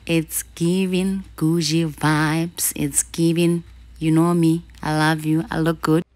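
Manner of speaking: excited. Real, not acted. Hyping her new sneakers.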